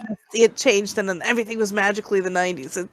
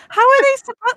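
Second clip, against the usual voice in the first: mock disbelief; 12 semitones higher, 4 dB louder than usual. Mocking the movie scene.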